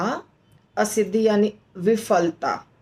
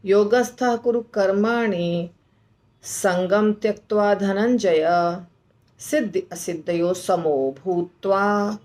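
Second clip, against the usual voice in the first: shloka recitation. Shown as a demonstration. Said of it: "ऐसे श्लोक को बोलना है".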